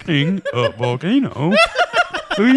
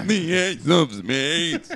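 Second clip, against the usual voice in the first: slowed rocker impression. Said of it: "a motorhead with a cold".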